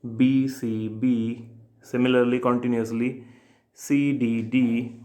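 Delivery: letters spaced out slowly; slow rhyme scheme. Shown as a demonstration. Teacher spelling out the terza rima rhyme scheme slowly. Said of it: "इस तरीके से चलती है".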